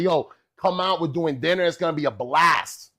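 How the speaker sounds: acting out an excited son; super hyped. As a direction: hype up the celebration. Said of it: "I was super hyped".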